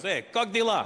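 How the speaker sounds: high mock Russian accent greeting; Russian guy hailing him in a thick accent. Russian guy greets him on the street, in a mock Russian accent. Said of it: "this Russian guy walks up and goes".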